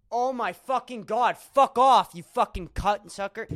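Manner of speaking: loud angry cursing at computer; swearing tirade. Real, not acted. Yells at computer.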